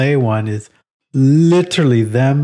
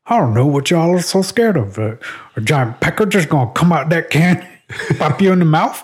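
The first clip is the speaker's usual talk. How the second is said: put-on country accent; 5 semitones higher than usual. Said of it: "He had a very deep country accent".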